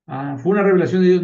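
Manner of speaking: a quick, loud mock-amazed "¿fue una revelación de Dios?" with the pitch rising; fast, loud fake wonder at "revelación de Dios"; mock surprised question. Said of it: "No, no fue una revelación de Dios".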